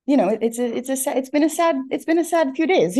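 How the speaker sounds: holding back tears while speaking; teary-eyed. Real, not acted. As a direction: voice rising high, close to tears. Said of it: "getting a little teary-eyed right now".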